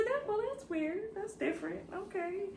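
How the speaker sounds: high, soft puzzled remark; high bemused murmur to herself; bemused aside. Retold or imitated. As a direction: quietly react to something weird. Retells own reaction.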